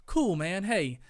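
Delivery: surprisingly high, eager voice from a big tough guy; gangster guy, gushing. Retold or imitated. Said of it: "And the guy's like".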